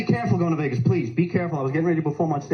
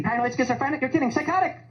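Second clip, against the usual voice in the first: mental patient; 7 semitones higher than usual. Retold or imitated.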